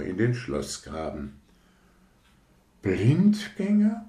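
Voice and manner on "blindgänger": much higher, slow outraged echo; indignant rocket. Acted. Rocket hears itself called a dud, outraged. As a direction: repeat the insult in disbelief.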